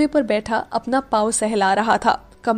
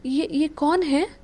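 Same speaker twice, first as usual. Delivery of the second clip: hesitant; 4 semitones higher, 3 dB quieter than usual. Acted. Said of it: "हिचकिचाते हुए कहा".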